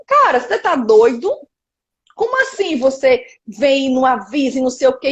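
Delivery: mild mock outrage; retold angry confrontation. Producer confronting a musician who never warned her, mildly angry retelling. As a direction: challenge them in disbelief, anger held in. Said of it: "eu ficava puta com o músico".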